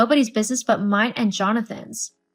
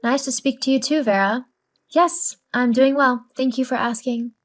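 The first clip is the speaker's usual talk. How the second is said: sarcastic. Acted. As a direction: say it with mock politeness. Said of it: "Enough with the sarcasm".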